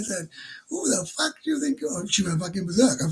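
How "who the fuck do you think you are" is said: higher, scornful challenge; angry challenge. Retold or imitated. Confronting the bar girl who lied about her price, higher and scornful. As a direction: demand it with contempt.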